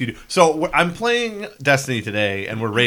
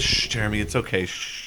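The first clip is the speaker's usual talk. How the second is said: mock soothing; 4 semitones lower, 5 dB quieter than usual. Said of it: "underneath it says".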